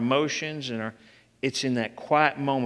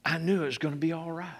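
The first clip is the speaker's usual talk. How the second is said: quiet, faster; 6 dB quieter, faster than usual. Real, not acted. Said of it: "from the depth of my being".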